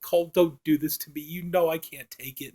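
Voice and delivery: mild mock-crying, voice dropping away. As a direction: imitate her begging through tears, lightly. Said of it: "she's really crying now".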